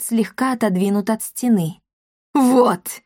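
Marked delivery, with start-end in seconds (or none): 2.3-3.0 loud gloating cry; triumphant shout. Acted. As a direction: crow it out in triumph. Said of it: "торжествующе крикнула Коптильда".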